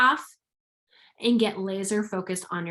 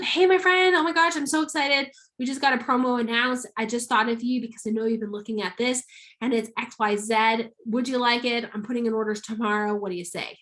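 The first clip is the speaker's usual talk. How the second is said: excited pitch to a friend; excited voice message. Shown as a demonstration. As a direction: gush to a friend about the promo. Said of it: "A lot more exciting hearing your voice".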